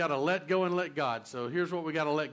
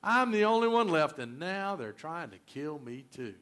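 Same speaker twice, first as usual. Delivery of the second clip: pity party. Acted. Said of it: "He was throwing a pity party".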